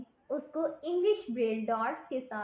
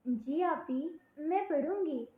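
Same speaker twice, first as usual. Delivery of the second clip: put-on small girl's eager reply, slightly higher; innocent little girl; 4 semitones higher than usual. Little girl agreeing to study with her teacher, innocent and eager. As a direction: answer sweetly like a young child. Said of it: "اس نے معصومیت سے جواب دیا".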